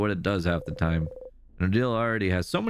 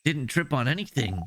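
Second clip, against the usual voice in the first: higher, probing and anxious; worried Isabeau; 8 semitones higher than usual. Acted. Isabeau questioning Bonnie's friend after the fall, anxious. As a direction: question gently but urgently.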